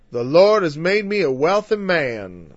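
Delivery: a light mock Southern preacher accent. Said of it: "Sorry, the South".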